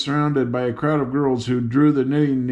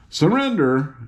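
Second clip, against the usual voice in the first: astounded; 3 semitones higher than usual. Acted. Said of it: "echoed the man, astounded".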